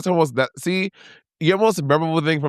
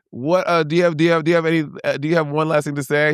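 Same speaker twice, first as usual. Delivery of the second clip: lightly raised host voice; playful host question; impression of a drag TV host; 3 semitones higher than usual. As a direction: ask it like a grand host. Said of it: "And he says".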